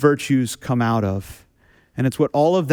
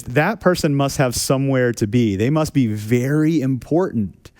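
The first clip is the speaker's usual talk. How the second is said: tongue in cheek. Retold or imitated. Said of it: "I say it tongue in cheek".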